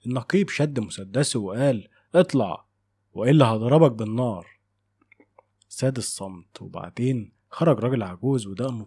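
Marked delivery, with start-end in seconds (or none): 2.1-4.5 armed threat. Acted. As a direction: order him out at gunpoint, raised voice. Captain draws gun, threatens. (تهديد بصوت عالي)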